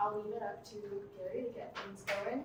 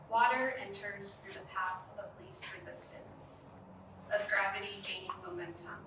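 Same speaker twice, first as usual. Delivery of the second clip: measured poem reading with long pauses; poetry reading. Acted. Poet reading their own work to a gallery audience, measured poetry reading.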